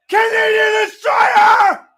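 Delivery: drawn-out hyped yell of the move name; excited shout. Real, not acted. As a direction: belt out "destroyer" slow and loud. Excited call of the big move.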